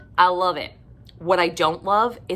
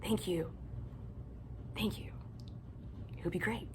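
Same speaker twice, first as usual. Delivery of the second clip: fading sarcastic thanks; 17 dB quieter than usual. Real, not acted.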